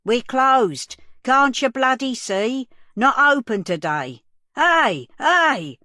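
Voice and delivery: loud, furious yell at the door; angry shouting. Acted. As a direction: bellow at them to clear off.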